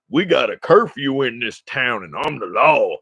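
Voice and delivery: mock officious cop voice; jerk cop. Driver mimicking the cop announcing the town curfew, mock officious. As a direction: imitate a self-important lawman. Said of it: "he rolled up like a dick".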